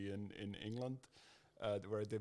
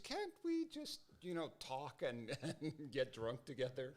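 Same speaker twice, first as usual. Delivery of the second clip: exasperated plea; 4 semitones higher, slower than usual. Retold or imitated. Exasperated plea about party games.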